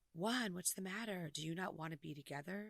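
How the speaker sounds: quiet, soft, hushed half-whisper. Retelling what a producer said to him: imitating someone half-whispering. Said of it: "whispering to him".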